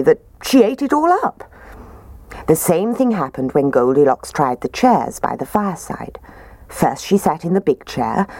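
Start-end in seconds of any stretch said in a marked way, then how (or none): none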